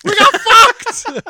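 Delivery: loud, high French outrage; french accent. Pretend. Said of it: "France should be here, be like".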